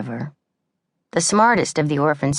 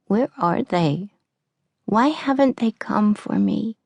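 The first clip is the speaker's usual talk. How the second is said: hushed, slow whisper to herself in the dark; 7 semitones higher than usual. A narrator's reading. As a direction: breathe the words, lost and alone. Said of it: "whispered Annie to herself in the dark".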